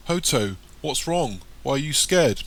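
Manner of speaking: a touch of anxious bewilderment; worried, puzzled. A narrator's reading. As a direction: ask with puzzled concern, voice lifted. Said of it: "in a worried and puzzled voice".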